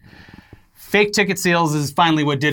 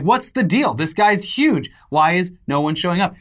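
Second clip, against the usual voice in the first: higher, confused gossip; puzzled fan voice; 4 semitones higher than usual. Pretend. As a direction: ask like a baffled fan. Voicing puzzled fans.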